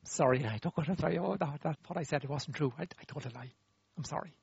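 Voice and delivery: small-voiced, embarrassed owning-up; awkward confession. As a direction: mumble it out sheepishly with restarts. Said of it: "This is gonna be awkward".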